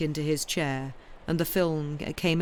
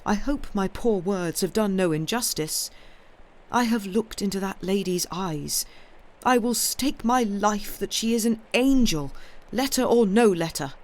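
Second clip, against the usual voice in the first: higher, earnest plea building in force; 5 semitones higher, 4 dB louder than usual. A narrator's reading. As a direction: vouch for her honour with growing force. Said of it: "said David earnestly".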